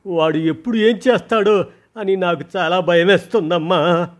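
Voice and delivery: rising distress as she tells it; tearful. Acted. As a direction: daughter telling mother of harassment, tearful. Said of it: "మళ్ళీ పెద్దగా ఏడవటం మొదలుపెట్టింది".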